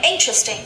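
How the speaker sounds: "interesting" with IN stressed, falling after; stress on first syllable. Shown as a demonstration. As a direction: model "interesting" for repeating, weight on IN. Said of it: "Pay attention to the stress".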